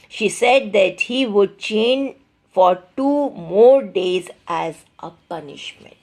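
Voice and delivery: deliberate, emphatic classroom reading; measured textbook narration; story read-aloud. A narrator's reading. Reads the story text aloud.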